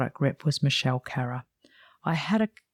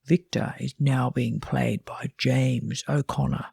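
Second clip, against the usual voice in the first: lightly put-on TV announcer voice; a hint of the soap's voiceover announcer; soap opera voiceover. Narrator mimicking a TV soap recasting notice, light voiceover voice. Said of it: "like the voiceover in the T V soap".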